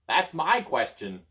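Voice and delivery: high, loud, slow little voice; a testy tiny voice; strange little voice. Acted. Hidden Merlin answering the child, high and slow. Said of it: "the strange little voice".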